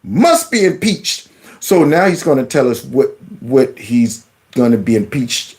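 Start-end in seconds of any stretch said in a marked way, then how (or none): 0.0-1.3 mocking echo. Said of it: "Y'all hear this?".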